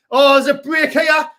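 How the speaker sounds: real commentator burst; excited shout. Real, not acted. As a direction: yell it as the break opens. Commentator spots a counterattack.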